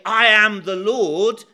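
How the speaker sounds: I pronounced with weight, slowly and loud; emphatic. Shown as a demonstration. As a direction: proclaim it slowly and loudly. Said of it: "he is emphatic".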